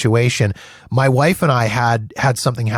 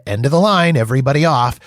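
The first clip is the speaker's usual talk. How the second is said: put-on cheery Irish accent; 2 semitones higher, faster than usual. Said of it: "in his cheery Irish accent".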